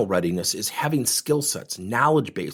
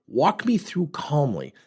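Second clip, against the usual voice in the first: slow, calm "Walk me through calmly."; 4 semitones higher, slower than usual. Shown as a demonstration. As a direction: ease the words out calmly and slowly to settle him. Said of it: "I use voice fluctuation to my benefit".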